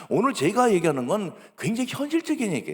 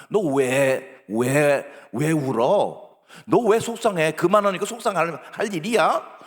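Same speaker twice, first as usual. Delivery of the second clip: insistent parent interrogating, somewhat louder; mock scolding; 2 semitones lower, 3 dB louder, slower than usual. Adult demanding why the child is upset, mock scolding. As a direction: press the child for a reason, mildly cross.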